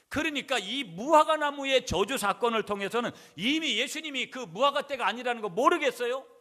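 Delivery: loud, high-pitched sermon emphasis; forceful preaching. Acted. Preacher telling congregation that believers have authority, forceful preaching. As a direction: drive the point home at full force.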